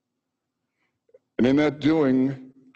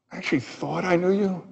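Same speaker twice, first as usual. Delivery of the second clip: higher, incredulous voice of God; God's rebuke; 4 semitones higher than usual. Retold or imitated. God asks Job whether he was there at creation, incredulous. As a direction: play God rebuking a presumptuous man.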